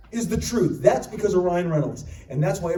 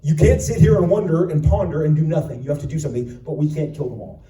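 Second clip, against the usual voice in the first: firm Cable; 2 semitones lower, 5 dB louder than usual. Retold or imitated. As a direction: lay down the law. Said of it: "Cable was supposed to say".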